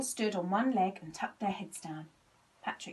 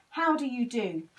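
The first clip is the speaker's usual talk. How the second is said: polite; 4 semitones higher, 7 dB louder than usual. A narrator's reading. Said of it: "he said politely".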